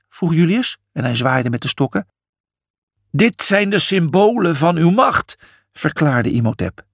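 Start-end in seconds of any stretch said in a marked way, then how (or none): 3.1-5.4 higher, formal declaration; solemn explanation. A narrator's reading. Imhotep presenting the sceptres to Julius, solemn. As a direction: declare it with ceremony.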